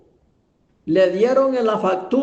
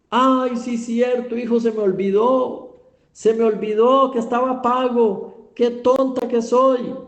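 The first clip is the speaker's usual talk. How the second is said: higher-pitched self-reproach, acted; a mother's mock dismay at her own forgetfulness; sudden realization; 5 semitones higher than usual. Mother tells son she forgot it was paid, sudden realization.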